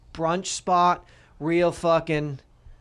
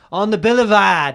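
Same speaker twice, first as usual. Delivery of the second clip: mock Australian accent; 5 dB louder than usual. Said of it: "say it in an Australian accent".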